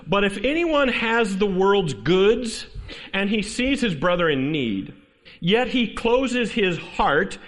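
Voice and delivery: slow, deliberate Bible reading; scripture reading. Acted. Preacher reading First John to the congregation, slow and deliberate. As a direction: read the verse out with measured weight. Reads scripture aloud, slowly.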